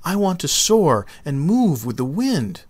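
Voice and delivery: high, eager little seed voice; the tiny seed begging to ride the wind; lightly voiced eager seed; grinning little seed. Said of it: "he said with a grin".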